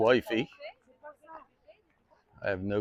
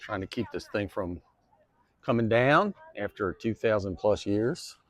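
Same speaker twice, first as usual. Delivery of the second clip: bumpy steps jolt the voice; walking on rough ground; 3 semitones higher than usual. Real, not acted. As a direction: talk while stumbling over uneven ground. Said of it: "Sorry for the bumps".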